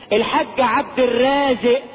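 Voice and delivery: "الرازق" with the final ق dropped to a glottal stop; colloquial mispronunciation. Retold or imitated. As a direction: say "الرازق" the street way, ending "-ze'". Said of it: "يقول لك".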